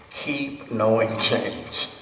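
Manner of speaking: "Keep knowing change" drawn out very slowly with a laugh; wrong mantra with calmly dropped. Shown as a demonstration. Teacher demonstrating the mantra without calmly, amused. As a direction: show the wrong version, laughing at it. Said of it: "you can't take calmly out and say".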